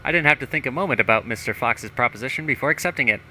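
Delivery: lightly voiced pompous politician; a touch of hammed-up self-importance; self-satisfied mayor. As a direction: read it out as a boastful small-town mayor. Reads mayor's journal in character.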